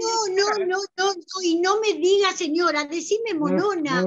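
protesting. Acted. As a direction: cut her off in protest. Madre protesta al coordinador. (protesta más aguda y fuerte)

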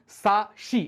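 সা with plain s, then শি with sh; sa-shi demo. Shown as a demonstration. Teacher shows the shi exception, each syllable set apart. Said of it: "এখানে কিন্তু শি".

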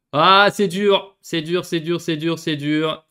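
loud, slow drawn-out moaning lament; slow despairing repetition. Real, not acted. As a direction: groan over the bad luck. Lament after conceding.

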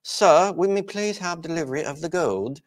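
high-pitched mock British accent; London accent. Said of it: "gonna go to London and say".

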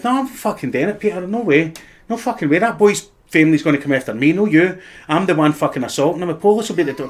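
staged row. Acted. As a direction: fake a furious refusal for the room. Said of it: "and I went".

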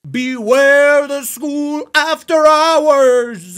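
very slow, loud, high ghostly intoning; spooky voice. Shown as a demonstration. Streamer reads the game text in a spooky voice. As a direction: drag it out like a haunting warning. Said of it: "like my spooky voice".

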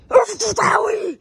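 high, slow, loud call; high yell into his ear. Acted. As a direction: drag it out to get his attention. Calling out to distracted owner.

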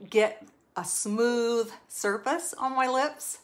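talking with a finger in the mouth; words round a fingertip, slightly muffled. Real, not acted. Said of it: "As I try to talk with my finger in my mouth".

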